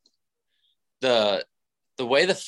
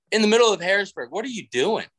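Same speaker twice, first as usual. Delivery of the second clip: higher, laughing through the words; laughing disbelief; 7 semitones higher than usual. Retold or imitated. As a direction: laugh at how absurd it is. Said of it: "I'm like".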